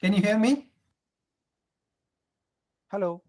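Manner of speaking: voice breaking. Real, not acted. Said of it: "Your voice is breaking".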